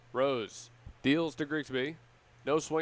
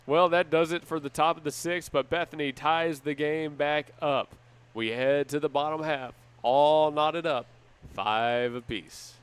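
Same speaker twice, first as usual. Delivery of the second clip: excited call; 6 dB louder than usual. Real, not acted. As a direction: sell the tie like a radio play-by-play man. Announcer wrapping up the inning.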